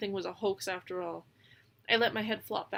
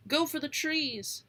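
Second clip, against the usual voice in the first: shout; 6 semitones higher, slower than usual. A narrator's reading. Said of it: "I shout".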